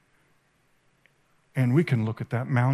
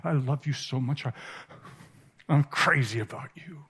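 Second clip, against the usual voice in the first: tender Jesus; 2 semitones lower, 4 dB quieter than usual. Retold or imitated. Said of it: "and he says".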